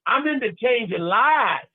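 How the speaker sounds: slow, dramatic declaration; Oscar-worthy conviction. Shown as a demonstration. Coach leading audience to repeat it, dramatic conviction. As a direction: draw it out like an award-winning actor. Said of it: "like you're trying to win an Oscar".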